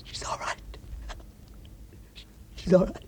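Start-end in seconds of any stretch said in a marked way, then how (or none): 0.0-0.6 whisper. Acted. Man in shock, muttering.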